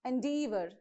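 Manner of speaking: Endeavor with no stress on the first syllable; enDEAvor, weight on the D syllable of Endeavor. Shown as a demonstration. Teacher showing how to stress Endeavor, second-syllable stress. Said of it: "You have to stress from D".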